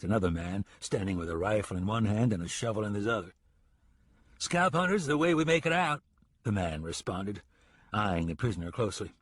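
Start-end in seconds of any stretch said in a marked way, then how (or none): 4.4-6.0 gruff townsman. Acted. Townsman answers the ranger.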